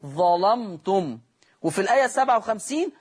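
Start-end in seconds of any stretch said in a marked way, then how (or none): 0.1-1.2 drawn-out Quranic recitation of ظلمتم; slow recitation. Shown as a demonstration. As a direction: recite ظلمتم slowly with tajweed. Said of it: "teacher recites verse word".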